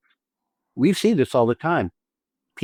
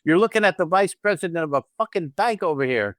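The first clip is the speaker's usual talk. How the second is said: higher, rising mock glee; feeding off her excitement; 6 semitones higher than usual. Shown as a demonstration. Husband answering his excited wife, higher and gleeful. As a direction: catch her excitement and toss it back. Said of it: "working off your excitement".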